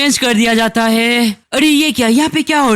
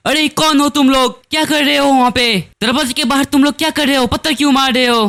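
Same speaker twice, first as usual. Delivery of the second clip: a raised-pitch, hurried demand, lightly acted; understated indignant questioning, higher voice; mild challenge; 4 semitones higher, faster than usual. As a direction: lightly confront whoever is outside, pitched up. Man challenges stone throwers at door.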